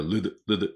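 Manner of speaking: "ルド" as a bare English "ld"; "ルド" clipped to the consonants l-d; English L-D ending. Shown as a demonstration. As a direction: say "ルド" as L then D, no full vowels. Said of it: "エルディーだからね".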